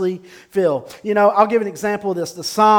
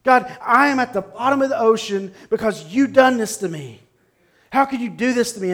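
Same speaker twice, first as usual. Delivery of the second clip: mildly heated accusation aimed upward, in Jonah's role; accusing, angry prayer; 3 semitones higher than usual. Acted. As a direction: voice a touch of anger, as if blaming God. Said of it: "the accusation, the anger in Jonah's voice".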